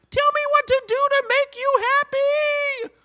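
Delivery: very high, sweet eager-to-please voice; squeaky pleading kid voice; eager Steven. Retold or imitated. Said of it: "He was like".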